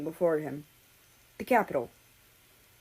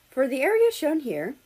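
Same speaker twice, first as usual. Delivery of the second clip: droning weatherman; 7 semitones higher, 4 dB louder than usual. A narrator's reading. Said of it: "the weatherman droned".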